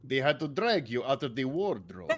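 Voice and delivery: a hint of a Swedish accent, taunting; lightly put-on Swedish sailor. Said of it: "I'm still doing Swedish".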